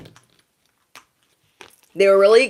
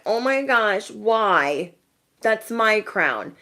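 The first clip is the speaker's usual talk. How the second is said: lightly put-on jealous whine, starting higher; mock dismay; 3 semitones higher, slower than usual. Speaker mimics rivals losing their crown, mock dismay. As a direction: imitate a rival's dismay, drawing out the end.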